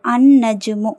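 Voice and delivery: "அந்நஜ்மு" with a long doubled N and no L; teacher's careful model of "அந்நஜ்மு", humming double N; lam silent. Shown as a demonstration. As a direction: hold the N in "அந்நஜ்மு", skipping the L. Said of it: "லாம் உச்சரிக்கப்படலை".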